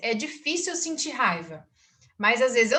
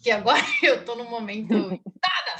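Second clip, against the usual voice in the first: mock irritated, laughing. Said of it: "pra eu falar".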